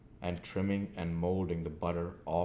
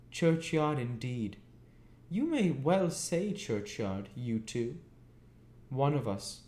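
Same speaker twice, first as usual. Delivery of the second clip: put-on high, cross scolding of a boy; shrill-voiced sister scolding; 7 semitones higher, 3 dB louder than usual. A narrator's reading. Mrs Joe mocking the word.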